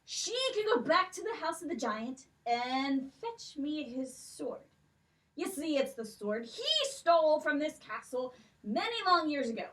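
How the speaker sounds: put-on a stately old king with a lilt, questioning; king's voice. King questions the girls about the stolen necklaces, stately. King gives his task.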